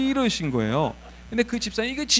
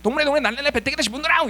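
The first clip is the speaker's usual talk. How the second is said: put-on fast, loud North Korean accent shout; Pyongyang dialect; 7 semitones higher, 5 dB louder, faster than usual. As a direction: rattle it off angrily in Pyongyang dialect. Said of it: "평양 사투리를 써가면서 막 빠른 속도로".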